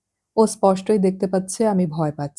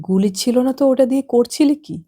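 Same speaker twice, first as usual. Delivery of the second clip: out of breath, higher and louder; breathless; 6 semitones higher, 4 dB louder than usual. A narrator's reading. Nitu gasping suspiciously at Nentu, breathless and higher. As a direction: gasp the question out. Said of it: "হাঁফ ধরা গলায় বলে".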